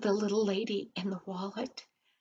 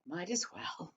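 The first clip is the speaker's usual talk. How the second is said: glum; 3 semitones lower, 10 dB quieter than usual. Acted. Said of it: "Dan was so down in the dumps".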